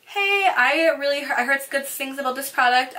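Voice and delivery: lightly voiced shopper asking a favor; friendly customer. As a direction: approach the sales girl with a lifted hey. Voices a customer approaching staff.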